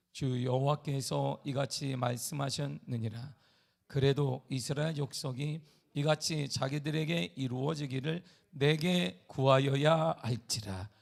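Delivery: slow, measured Bible reading; solemn scripture reading. Acted. Pastor reading Ezekiel to the church, slow and solemn. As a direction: read each word with weight.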